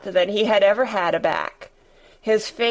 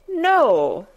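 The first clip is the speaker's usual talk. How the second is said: shouting; 4 semitones higher, 4 dB louder than usual. Acted. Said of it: "shouted Colin".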